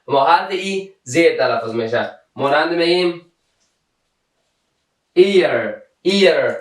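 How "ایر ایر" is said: "ایر" begun with an ee vowel, not a; teacher's demo of "ایر" opening on ee; E as long ee. Shown as a demonstration.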